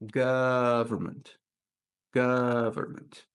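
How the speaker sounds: "government" slowly, with a long GUV; stretched stressed syllable. Shown as a demonstration. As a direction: draw out the first syllable of "government". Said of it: "the longest".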